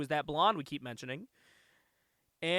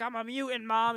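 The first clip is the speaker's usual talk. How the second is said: higher mock-dramatic daughter; retold teen confession; 6 semitones higher than usual. Daughter confessing to her mom, mock-dramatic high voice.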